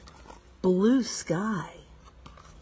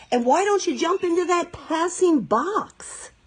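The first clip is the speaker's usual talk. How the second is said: spider voice; 7 semitones higher than usual. A narrator's reading. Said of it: "suggested a helpful spider".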